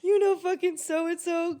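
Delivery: hammed-up cheery hello to the ex; mock casual intro. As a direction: sound fake-friendly to rub it in.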